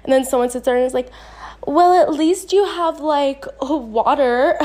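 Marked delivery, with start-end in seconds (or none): 1.7-4.6 high, breezy brush-off voice; dismissive friend. Retold or imitated. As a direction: lightly brush off the complaint. Dismissive friend quoted at least-ing.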